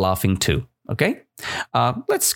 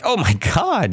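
higher, lightly chuckled exclamation; mock chuckle; 6 semitones higher than usual. Shown as a demonstration. Teacher showing what chuckled means, mock chuckle. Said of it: "Chuckled like".

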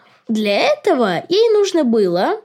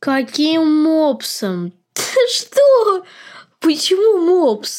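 high, laughing disbelief at a strange fact; surprised laugh; 6 semitones higher, slower than usual. Real, not acted. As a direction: burst out laughing in astonishment, stretching the first question. Shocked that the creature is part pug. (удивлённо со смехом)

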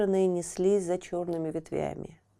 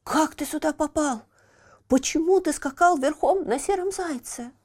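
Буратино; 10 semitones higher than usual. Acted. Buratino questions Pierrot eagerly.

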